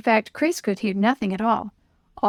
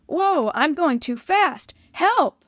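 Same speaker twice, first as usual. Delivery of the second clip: slow, rising panicked cry; scared yell for help; frightened; 6 semitones higher, slower than usual. A narrator's reading. Out-of-control sled ride.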